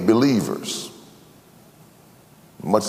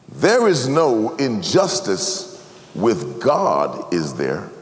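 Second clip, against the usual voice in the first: slow rhetorical question, fading quiet; slower than usual. Shown as a demonstration. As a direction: ask it slowly, drop soft at the end. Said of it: "And the question is this".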